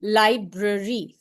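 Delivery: slow, each syllable marked; syllable demo. Shown as a demonstration. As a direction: spell out Library in beats. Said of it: "three syllables".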